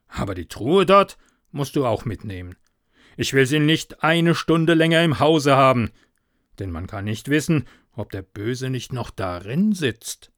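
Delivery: loud then hurried, uneasy; insist, then rush the fearful thought; uneasy farmer. Acted. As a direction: farmer wanting the devil's chest out. Farmer wants chest gone.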